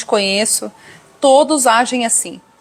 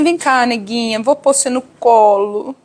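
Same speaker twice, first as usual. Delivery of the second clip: mock-tender, melodramatic coddling, stretching Ó céus and Ó terra very slowly; hammed-up pity like petting a child; a hint of an overdone sweet husband consoling his wife; slower than usual. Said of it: "Ele não fica assim".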